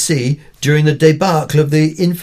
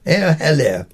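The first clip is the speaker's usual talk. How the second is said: run together. Shown as a demonstration. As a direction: slur the three words together like one hello. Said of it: "Run them together and you have the classic drinks party greeting".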